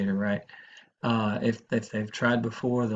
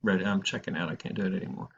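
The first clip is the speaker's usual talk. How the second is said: subdued, resigned finality; no ambivalence; 2 semitones lower, 4 dB quieter than usual. Acted. Teacher acting a decided caller, quietly resigned. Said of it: "There's no ambivalence".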